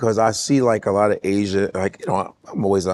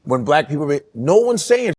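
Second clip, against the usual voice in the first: heated rant; 3 semitones higher than usual. Real, not acted. Rant about respect for culture.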